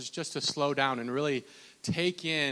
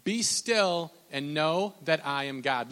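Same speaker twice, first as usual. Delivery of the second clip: preach; slower than usual. Acted. Reads scripture.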